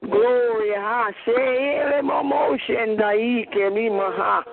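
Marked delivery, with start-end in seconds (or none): 1.3-4.4 speaking in tongues. Real, not acted. Prayer in tongues.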